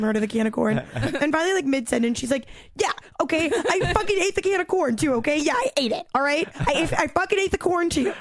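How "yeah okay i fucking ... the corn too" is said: higher, exasperated owning-up; hammed-up imitation of a caught culprit; retold defensive confession. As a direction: blurt it out as if cornered. Acting out friend's blurted confession.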